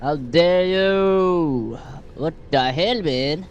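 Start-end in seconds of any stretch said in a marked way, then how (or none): 0.0-1.8 shaking with anger. Acted. Outraged at the game narrator.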